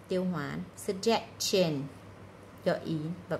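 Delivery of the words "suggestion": "Suggestion" with -tion said as "chun"; slow "Suggestion", clear ch in the ending; ch sound in -tion. Shown as a demonstration. Teacher sorting sounds for students, "Suggestion" with a ch ending. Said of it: "Ba âm này là ba âm trừ".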